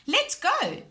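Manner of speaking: high, loud cheer. A narrator's reading. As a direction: cheer them off in the car. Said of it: "cheered Peppa".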